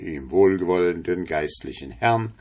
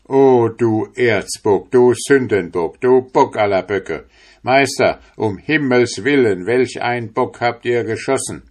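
louder, raised preacher's outcry; horrified priest; 4 semitones higher, 5 dB louder than usual. Acted. Priest denouncing the apprentice to the tailor, loud horrified outcry. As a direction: thunder against the devil.

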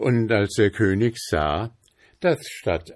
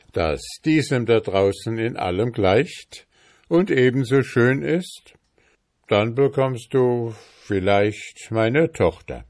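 lightly voiced king, a bit higher and firmer; king setting a challenge; 4 semitones higher, 4 dB louder than usual. King offers the boy his daughter for a ship, lightly voiced challenge. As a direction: put the challenge as a slightly emphatic king. King figure in narrated tale.

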